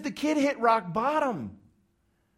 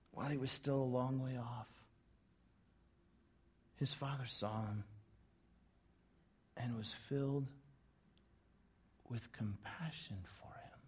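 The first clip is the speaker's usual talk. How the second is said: hushed dramatic reading; 10 semitones lower, 17 dB quieter than usual. Shown as a demonstration. Preacher rereading the verse to his congregation, hushed and pausing. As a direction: draw them in with a near whisper. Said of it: "could you imagine Jesus pausing there".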